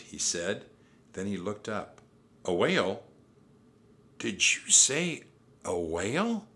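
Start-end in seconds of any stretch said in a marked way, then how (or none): 2.5-6.5 puzzled, louder questioning; incredulous. A narrator's reading. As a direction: check it in disbelief. Jack doubts what he heard.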